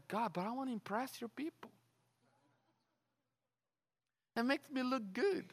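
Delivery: small-voiced, acted-out protest; sheepish pleading. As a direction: plead meekly with God, very softly. Acts own sheepish reply to God.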